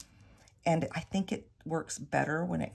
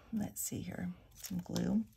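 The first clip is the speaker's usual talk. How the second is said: quiet whispered aside to self; 6 dB quieter, slower than usual. Real, not acted. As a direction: whisper while hunting for glue. Whispered aside while searching.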